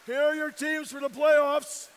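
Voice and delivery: announcer. Real, not acted. Announcing playoff teams to crowd.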